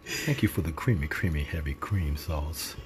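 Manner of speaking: slow, solemn mock blessing; measured, reverent dinner prayer. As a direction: draw out each thanks like a preacher saying grace. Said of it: "that's my prayer voice".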